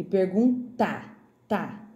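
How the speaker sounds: "pergunta" slowed, final "tá" punched out; clear T sound. Shown as a demonstration. Teacher contrasting T with D, "pergunta" with a crisp final "tá". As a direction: break off and stress the "tá" of "pergunta". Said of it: "não é dá".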